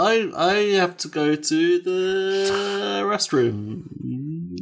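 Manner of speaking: cowboy voice. Acted. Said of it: "Why are you talking all weird?".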